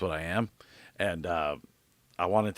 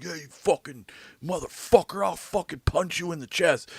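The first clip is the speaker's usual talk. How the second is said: mock angry yelling; 5 semitones higher than usual. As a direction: play a hammed-up angry driver without full volume. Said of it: "I'm not yelling at him".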